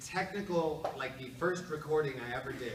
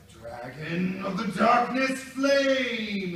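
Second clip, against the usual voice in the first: slow, much louder, higher attack shout; battle cry; 8 semitones higher, 15 dB louder, much slower than usual. Retold or imitated. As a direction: yell the attack name. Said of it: "the first time I was probably like".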